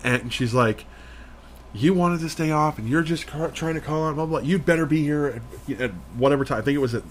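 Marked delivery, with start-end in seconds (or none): 1.7-6.6 higher, mocking voice of a nagging manager; mock shrill boss. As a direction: sneer it like a bossy manager scolding. Manager scolding on phone.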